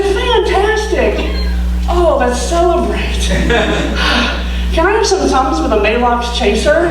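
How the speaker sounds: overdone fake delight with a sigh; sarcastic. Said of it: "I said".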